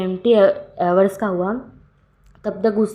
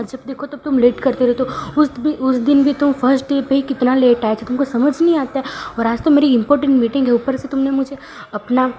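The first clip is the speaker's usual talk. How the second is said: angry scolding; 4 semitones higher than usual. Acted. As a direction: tear into him for always being late. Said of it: "इतने ज़ोर ज़ोर से मतलब डांटे ही जा रहा था". (गुस्से में ऊँची आवाज़ में डांटना)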